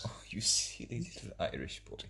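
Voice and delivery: mock German accent, teasing. Podcaster teasing co-host as Irish, German accent. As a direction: tease him in a put-on German accent. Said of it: "this is not my best German accent".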